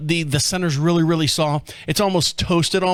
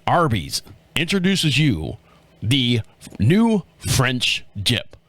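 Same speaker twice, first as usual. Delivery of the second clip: commercial announcer; 5 semitones lower, slower than usual. Retold or imitated. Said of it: "they're like".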